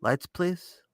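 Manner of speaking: put-on high, soft little-kid voice; Linus. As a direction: ask in a tiny high voice, lifting at the end. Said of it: "With his little fucking voice".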